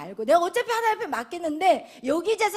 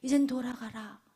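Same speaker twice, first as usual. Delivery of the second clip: low, whispered blessing; hushed blessing; 7 semitones lower, 9 dB quieter than usual. Retold or imitated. Eli blessing Hannah, whispered. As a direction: send her off softly with a promise. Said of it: "그러자 이 엘리 제사장이".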